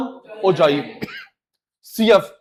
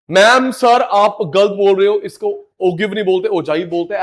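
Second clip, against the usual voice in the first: rude student; 5 dB louder than usual. Retold or imitated. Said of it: "तो उसको ये मत बोलियो कि तू गलत बोल रहा है".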